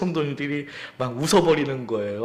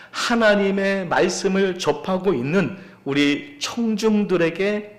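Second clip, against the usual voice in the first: raised-pitch preaching, building in intensity; emphatic preaching; 5 semitones higher, 3 dB louder than usual. Real, not acted. Preacher tells the congregation why the passage matters today, emphatic preaching. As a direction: press the point on the listeners.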